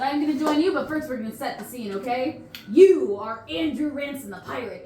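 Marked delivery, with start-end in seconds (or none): 2.7-4.8 announcing. Acted. Tour guide setting the scene.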